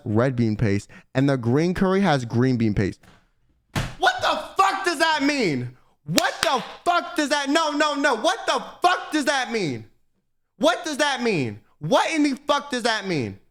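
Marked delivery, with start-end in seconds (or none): 4.0-13.4 high, slow, disbelieving what the fuck; sputtering in outrage at the menu; exasperated outburst. Real, not acted. Streamer ranting to chat about identical curries, outraged.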